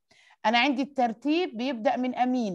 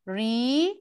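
"Recycle" in three drawn-out, separate syllables; 3 semitones lower, slower than usual. Shown as a demonstration. Teacher lists the three syllables to a pupil, syllable by syllable. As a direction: pause after each syllable of "Recycle". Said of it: "اللي هم ايه؟".

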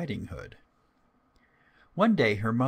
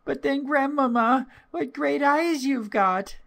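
put-on very high, childlike wonder; amazed little girl; 6 dB louder than usual. A narrator's reading. Little girl puzzled by grandmother's looks, high childlike wonder. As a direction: marvel as a small child, voice pitched right up.

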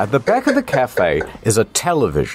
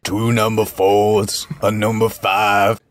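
slow, drawn-out Black voice, repeated; African American accent; 3 semitones lower, slower than usual. Acted. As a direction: say it again in the Black voice. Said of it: "I wanna hear it again".

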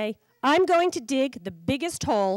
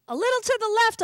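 much higher, yappy puppy voice; puppy asking for a scratch; happy bark; 11 semitones higher, 3 dB louder, faster than usual. Acted. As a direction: yip it out like a pleased puppy. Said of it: "I bark".

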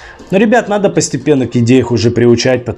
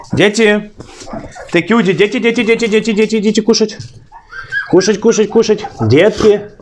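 raised, sing-song calling out; 5 semitones higher than usual. Real, not acted. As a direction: call them in to eat, high and bright. Calling the puppies to eat.

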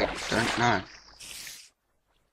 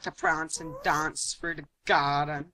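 mock-flamboyant English, long "ah" vowels; teasing imitation of flamboyant English speech; flamboyant English accent; 3 semitones higher, 5 dB louder than usual. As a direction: put on a showy English accent. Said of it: "really flamboyant English way of saying it".

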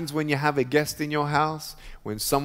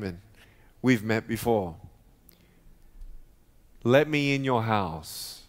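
gentle Jesus voice; 3 semitones lower than usual. Retold or imitated. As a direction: speak as a tender healer at the door. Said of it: "And he says".

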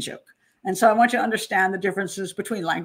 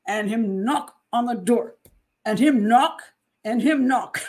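higher, deliberate Jamaican storytelling; bad Jamaican accent; 4 semitones higher, 3 dB louder than usual. Mother-in-law telling a story, in imitation Jamaican cadence. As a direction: escalate the tale in an amateur Jamaican accent. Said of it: "it's a very bad Jamaican accent".

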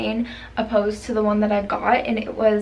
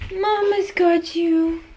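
high, slow cooing comfort; 6 semitones higher, slower than usual. Real, not acted. Mother comforting crying baby.

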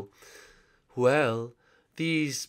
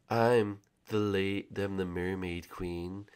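mermaid queen voice; 3 semitones lower, 7 dB quieter, slower than usual. Acted. Mermaid queen speaks low, slow.

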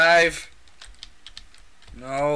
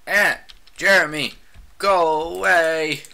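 louder and slowed, stretching each word; 6 dB louder than usual. Real, not acted. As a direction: drag the taunt out loud at the enemy. Repeats taunt at opponent.

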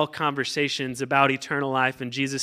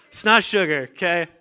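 laughing; 3 semitones higher, 4 dB louder than usual. Real, not acted. Laughing insistence about sugar substitutes.

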